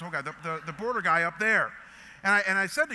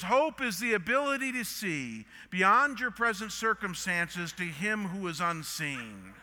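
retold yell; 2 semitones higher, slower than usual. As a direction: imitate a wife calling across the car. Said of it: "She yells to the guy".

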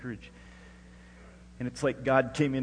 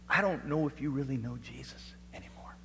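whispered quote; 3 dB quieter than usual. Retold or imitated. Father's tearful words retold.

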